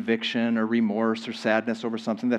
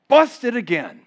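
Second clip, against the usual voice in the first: mock caught sinner; 8 semitones higher, 5 dB louder, slower than usual.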